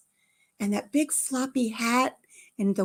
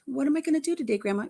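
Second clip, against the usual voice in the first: put-on higher-pitched pleading kid; imitated impatient child; 5 semitones higher, much faster than usual. Granddaughter asks Grandma about the day, high and impatient. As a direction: play a child pestering Grandma.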